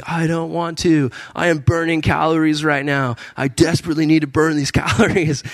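mock whine of reluctance; reluctant protest. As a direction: plead your way out of it. Retelling his reluctant reply to God.

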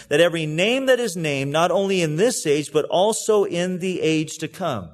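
earnest, steady Bible reading with a preacher's lift; scripture reading. Acted. Pastor reading Paul's prayer to the congregation, earnest scripture reading. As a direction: read Paul's prayer out to the church, unhurried.

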